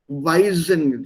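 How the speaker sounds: "Weiden" with a z for the d, like "Weisen"; "Weiden" slipped into a buzzing z in the middle; mispronounced Weiden. Shown as a demonstration. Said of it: "weiden, sorry, not weiden".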